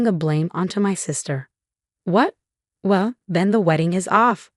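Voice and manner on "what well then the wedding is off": a mild mock scream of frustration; lightly raised, upset outburst; understated tearful yell; frustrated scream. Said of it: "she screamed in frustration".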